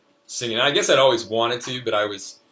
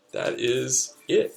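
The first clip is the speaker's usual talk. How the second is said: put-on a young boy telling his adventure, pitched up; child's voice; 8 semitones higher, 5 dB louder than usual. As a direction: read it like an eager little kid. Child narrator reads his story.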